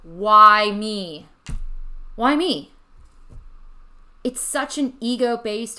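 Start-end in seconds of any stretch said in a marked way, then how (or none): 0.0-2.7 anguished cry, louder, pleading to the sky; crying out in despair. Retold or imitated. Retelling her breakdown to listeners, a louder despairing cry. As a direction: wail it like life is unfair. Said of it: "where I cried out".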